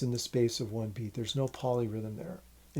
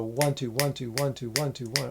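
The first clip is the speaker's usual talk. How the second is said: quick count leaning on each ONE; even rhythmic count with ONE accented; accent every second note. Shown as a demonstration. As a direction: count in pairs, stressing ONE and lightening TWO. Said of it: "All those accents".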